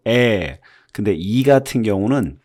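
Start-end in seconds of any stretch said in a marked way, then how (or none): 0.1-0.6 에 pushed from the belly; dark vowel from the belly. Shown as a demonstration. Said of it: "배에다 힘을 주듯이". (배에서 내는 에)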